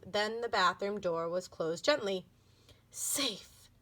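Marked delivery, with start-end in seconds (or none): 2.9-3.7 soft exclaim. Acted. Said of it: "exclaimed Tiffany softly".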